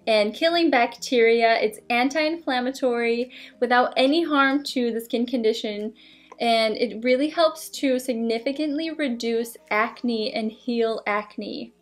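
speaking behind rigid mask; talking through mask mouth-hole; wearing a face mask. Real, not acted. Seen 1: Glowing LED mask on face throughout, mouth visible through opening.

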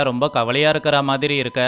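ordinary delivery, nothing marked

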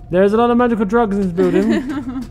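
laughing through the words. Real, not acted. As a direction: giggle while saying it. Joking about drugs.

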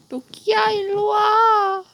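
high, loud pleading shout; desperate calling. Real, not acted. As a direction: yell for them to come back. Calling rookie in panic.

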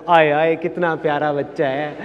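slow, doting imitation of relatives; mock-fond fussing; affectionate cooing. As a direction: coo over an adorable child, drawn out. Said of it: "मेरे को प्यार करते थे".

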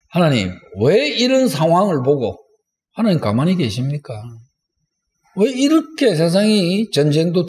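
acted, mildly reproachful prayer; 따지듯이 기도. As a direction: press God for an answer, dropping at each question's end. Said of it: "이렇게 따지듯이 기도하는 사람". (하나님께 따지듯 묻는 기도)

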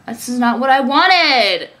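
drawn-out, frustrated protest; real exasperation, slow and swelling; frustrated complaint. Real, not acted. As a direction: stretch the last word into a loud complaint. Venting frustration about her workload.

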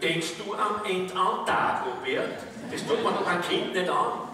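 mildly indignant aunt, emphatic; scandalised relative putting someone right. Acted. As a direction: object with measured outrage, leaning on the key words. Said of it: "Die Maritanne sagt ganz empört".

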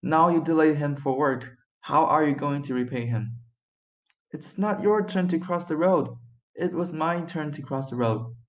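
brutal. A narrator's reading. French driver confronting someone over crossing the road, brutal. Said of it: "said brutally by the French driver".

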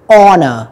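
"honor" starting on the vowel; silent H. Shown as a demonstration. Teacher giving another mute-letter example, silent H. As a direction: say "honor" as "onor", no H. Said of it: "chữ hát nó thuộc là âm câm".

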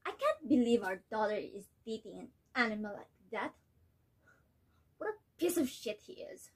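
outraged mother ranting at her husband; fed up, furious and disbelieving; indignant mother. Acted. Nella rants about daughter's boyfriend.

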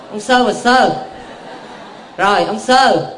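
laughing. Real, not acted. Đếm tổ tiên cười.

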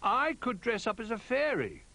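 high, eager little bear voice. A narrator's reading. Little Bear offering to be the fairy, high and keen. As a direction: suggest it in a high, small voice. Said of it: "suggested Little Bear".

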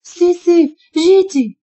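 high, startled and frightened; trembling fright. Acted. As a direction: gasp out his name, scared. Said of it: "كترعد".

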